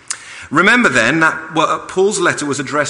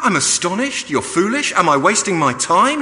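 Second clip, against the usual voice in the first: voicing Paul worried; 6 semitones higher than usual. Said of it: "he's saying".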